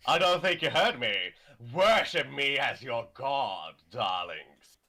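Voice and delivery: flamboyant diva voice, grand and showy; campy drag queen. Acted. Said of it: "So me doing Metaton".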